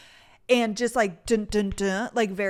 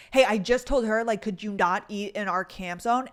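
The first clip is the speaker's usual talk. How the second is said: mild retold confrontation; acting out an annoyed camper's demand; extra aggressive; 3 dB louder than usual. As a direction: imitate someone pushing back aggressively. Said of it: "this time it was, like, extra aggressive".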